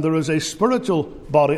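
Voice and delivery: "spiritual" made the prominent word; stress on spiritual. Retold or imitated. Preacher citing a paper's argument, stress on "spiritual". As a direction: lean on "spiritual", pause before "body". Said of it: "put all the emphasis on the word spiritual".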